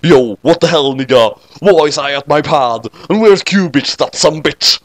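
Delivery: a hint of a tough street accent; girl waking in a new street accent. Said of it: "another new accent".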